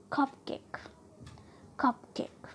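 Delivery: कपकेक with CUP stressed; weight on 'कप', lighter 'केक' in कपकेक; first noun stressed. Shown as a demonstration. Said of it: "first noun पर trust करते हैं". (कपकेक में 'कप' पर ज़ोर)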